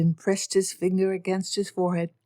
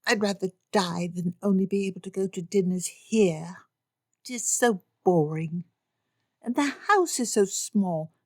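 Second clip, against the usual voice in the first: put-on girlish whine. Lydia complains to her parents, petulant whine. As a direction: pout through it.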